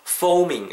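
"foaming" starting on an airy English F; leaking F. Shown as a demonstration. Teacher modelling for learners, "foaming" with a leaking F. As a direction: let air leak through the F of "foaming". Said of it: "새는 발음으로".

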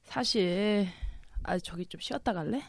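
put-on slurred, tipsy drunk voice. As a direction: play it drunk and mumbling. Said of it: "자, 이제 취한 연기 들어갑니다".

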